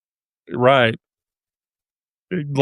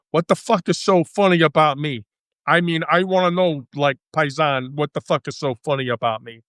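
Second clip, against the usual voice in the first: Joe Pesci. Retold or imitated. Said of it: "watch Joe Pesci".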